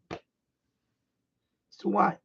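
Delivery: "It's too wide." stretched very slow and soft; drawn-out complaint. Real, not acted. Vlogger repeating the radio gripe, slow and deflated. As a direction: drag it out slowly, sighing it to yourself.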